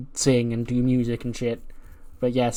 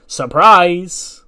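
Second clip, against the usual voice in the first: loud, higher, sing-out announcement; excited surprise; 5 semitones higher, 8 dB louder than usual. Acted. Newcomer greeting the locker room, excited. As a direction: burst in with a big surprise.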